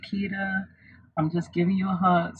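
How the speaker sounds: mother's gentle, quiet voice; soft voice. Retold or imitated. Mother hugging her sleepy daughter before surgery, softly. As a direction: lightly imitate a soft-spoken mom. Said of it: "my mom always had that soft voice".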